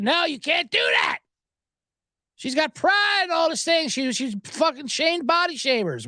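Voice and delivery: high, indignant mock protest; mock outrage. Acting out outraged defenders of a singer.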